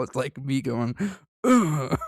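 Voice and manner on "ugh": a lighter dying grunt; death rattle. Pretend. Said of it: "that's my death rattle".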